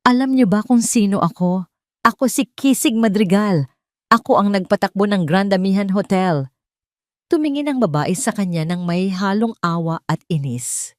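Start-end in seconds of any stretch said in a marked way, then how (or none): 0.1-6.5 angry boasting. Acted. Arrogant man demands recognition.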